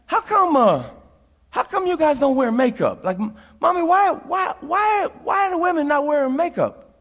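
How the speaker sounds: a boy's voice, rising into a mild mock shout on why; little boy asking. Little boy asking a church mother, mock shouted questions. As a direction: play the curious child pestering. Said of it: "I said".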